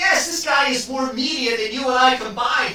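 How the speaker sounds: shouting the point; loud insistence. Real, not acted. Heated banter defending Kevin's TV credentials.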